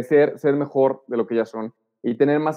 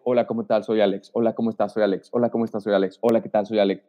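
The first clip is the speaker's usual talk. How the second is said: lower, repetitive hellos to each guest in turn; awkward one-by-one greeting; 4 semitones lower than usual. Shown as a demonstration. Newcomer greeting each guest one by one, lower and repetitive. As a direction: introduce yourself to every person, dutiful and low. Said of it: "En vez de decir".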